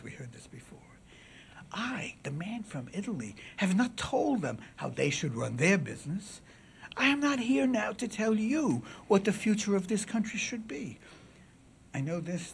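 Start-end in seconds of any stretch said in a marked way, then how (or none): 1.7-12.5 classical oration. Acted. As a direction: declaim to the jury, lifting the pitch. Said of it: "was classical oration".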